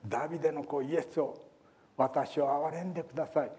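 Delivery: a blind beggar crying out to Jesus, pleading call; mock cry for mercy. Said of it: "と大声で叫び続けた".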